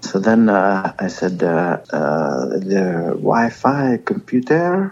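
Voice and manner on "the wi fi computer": light, put-on French accent. Retelling asking a french boy about the wi-fi: put-on french accent. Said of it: "Just throwing a little French accent on it?".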